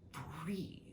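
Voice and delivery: hushed, voiceless whisper; whispered question. Real, not acted. Asking viewers why housing costs money, whispered. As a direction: drop to a whisper on the word.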